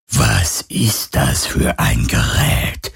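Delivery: very low, slow phantom; cold otherworldly question. A narrator's reading. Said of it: "fragte das Phantom".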